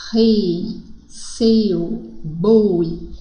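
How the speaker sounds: "rei, seu, boi", each diphthong stretched with a closed vowel; teacher spacing out "rei, seu, boi" to show closed vowels. Shown as a demonstration. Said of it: "ditongos formados por vogal fechado".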